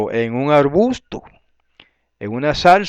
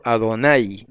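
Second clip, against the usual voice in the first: Adonai with the accent on the last A; stress on A; slower than usual. Shown as a demonstration. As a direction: say Adonai as a-do-NAI. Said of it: "lleva el acento en la A".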